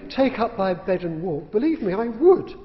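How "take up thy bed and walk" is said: a slow, louder, solemn "Take up thy bed and walk"; looming command. Pretend. A commanding figure looming over the patient, slow solemn order. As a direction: tower over him and intone it. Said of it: "loom over me and say".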